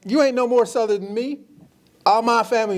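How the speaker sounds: mock indignation. Panelist claiming to be equally Southern, mock indignant. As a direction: protest it in imitated offense.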